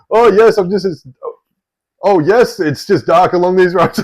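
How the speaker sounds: high-pitched caricature of the driver; retold driver's voice. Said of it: "I won't do the accents".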